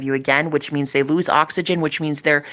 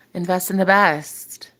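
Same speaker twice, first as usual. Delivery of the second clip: slow slogan; slower than usual. Shown as a demonstration. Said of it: "I gotta get that on a t-shirt".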